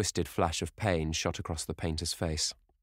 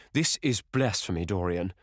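cried out; 2 semitones higher, 4 dB louder than usual. Acted. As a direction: cry out in horror. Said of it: "he cried".

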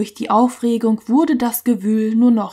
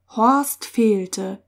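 ordinary delivery, nothing marked

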